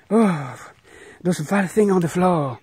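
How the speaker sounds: loud, high cries of disgust; disgusted fright. Real, not acted. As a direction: recoil from something vile. Sees vile things on the floor.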